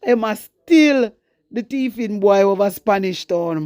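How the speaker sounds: slow deliberate quoted insult; slow quoted jab. Retold or imitated. Vlogger quoting Talk Your Mind's insult slowly. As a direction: drag out the jab about the thiefing boy. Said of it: "Talk Your Mind say".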